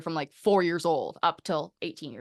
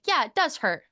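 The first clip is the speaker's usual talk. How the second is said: put-on higher, childlike agreement; mock child voice, much higher; imitating a kid; 8 semitones higher, 4 dB louder than usual. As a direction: play the little student agreeing. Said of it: "They're like".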